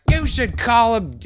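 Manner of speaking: high, loud snapping reply; imitating the angry father's high, loud comeback; heated retort. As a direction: fire back, fired up. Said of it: "And he was like".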